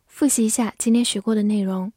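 unvoiced whisper; fast whispered aside; whispering the review lead-in. Real, not acted. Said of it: "whispered review announcement".

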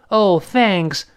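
gushing mock gratitude; exaggerated thanks. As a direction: overdo the thanks, stretching each word. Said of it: "甚至夸张一点说".

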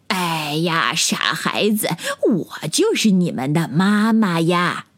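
lightly voiced fond frog mother. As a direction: gently tell the silly children. Frog reveals she is their mother. (青蛙妈妈轻柔地说)

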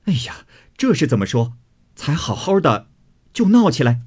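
high, flustered reproach; dismayed exclamation. Acted. Newcomer dismayed at the brawl. (惊讶又着急地劝问)

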